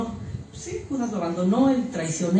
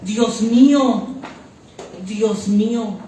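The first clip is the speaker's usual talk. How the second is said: fuerte fervor; much slower than usual. Retold or imitated. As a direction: call out to God with drawn-out fervor. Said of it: "con un fuerte fervor". (con fuerte fervor)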